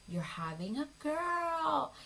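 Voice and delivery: high, loud, drawn-out excited cry; happy squeal. Retold or imitated. Mom-in-law discovers she's getting a granddaughter, happy squeal. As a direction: stretch it out, rising into an overjoyed shriek. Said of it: "she was so happy".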